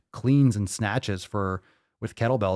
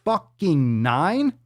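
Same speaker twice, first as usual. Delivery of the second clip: mock outrage; 4 semitones higher, slower than usual. Mock outrage at burp score.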